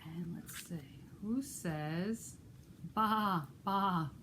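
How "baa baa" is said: sheep bleat. Pretend. Librarian imitates sheep.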